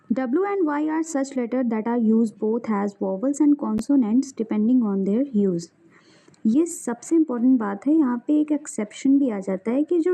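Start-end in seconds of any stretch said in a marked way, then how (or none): 0.1-5.6 reading a textbook definition slowly, word by word; slow dictation. Acted. Teacher dictating a grammar definition to students, slow and deliberate.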